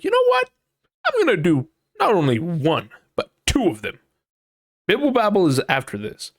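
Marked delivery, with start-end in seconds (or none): 0.0-4.0 jumps high on know what, then settles; retold eager boast. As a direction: imitate your own cocky promise. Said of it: "I was like".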